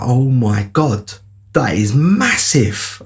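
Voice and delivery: slow, drawn-out disbelief at the size; awed amazement. Retold or imitated. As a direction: stretch out the words in retold awe. Reliving sight of the huge fish.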